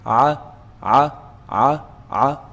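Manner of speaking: "A" squeezed from the middle of the throat; ain from mid-throat. Shown as a demonstration. Teacher letting students feel the vibration, throaty "A". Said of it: "from the middle part of the throat".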